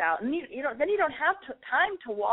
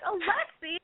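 squealed name; 9 semitones higher, slower than usual. Pretend. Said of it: "you're gonna be like".

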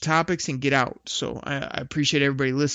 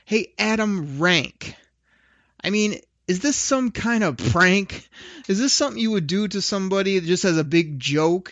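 playful rhyming rant; 4 semitones higher than usual. Acted. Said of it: "I don't know if you'd call this a rant".

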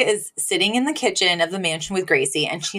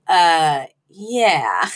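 sheepish yeah; 3 semitones lower than usual. Retold or imitated. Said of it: "Sylvia's flawless "Uh, yeah" delivery".

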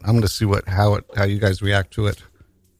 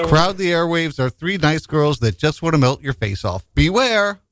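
ad read; 6 semitones higher than usual. Acted. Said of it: "Let me do that again".

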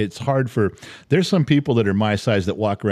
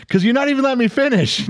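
stifled giggles; 14 semitones higher, faster than usual. Real, not acted. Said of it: "You're laughing".

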